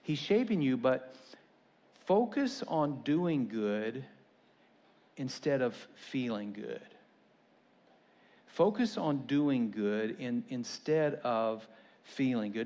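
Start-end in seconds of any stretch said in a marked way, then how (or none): 2.1-6.8 slow emphatic. Shown as a demonstration. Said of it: "repeated for emphasis". 8.5-12.7 slow repetition. Shown as a demonstration. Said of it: "repeated for emphasis".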